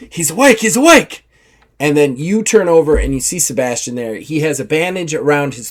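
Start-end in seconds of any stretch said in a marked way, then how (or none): 0.1-1.3 excited pirate. Acted. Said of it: "one of the pirates is like".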